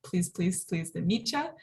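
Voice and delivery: "meet" accented, then "ya" lifting at the end; stress on MEET. Shown as a demonstration. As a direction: tick off each "please", then lean into "meet ya". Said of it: "that penultimate syllable".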